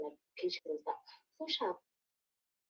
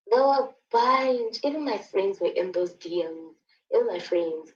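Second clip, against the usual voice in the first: indignant; 6 dB louder than usual. Real, not acted. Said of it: "stressing the betrayal".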